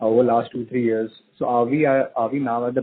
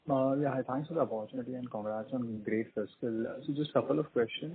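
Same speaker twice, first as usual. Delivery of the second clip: muffled and softer, like through a hand; 5 dB quieter than usual. Real, not acted. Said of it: "your voice is a bit muffled".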